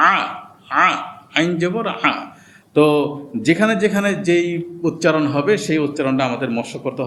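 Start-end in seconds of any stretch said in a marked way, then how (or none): 0.1-2.1 আ from the throat for আইন; guttural ain demo; throaty ain. Shown as a demonstration.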